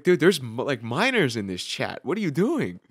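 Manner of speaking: loud, high, scolding the friend; hey, what are you doing, half-shouted; alarmed call-out. Retold or imitated. Scolding a friend in the chat, loud and high. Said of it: "We're like".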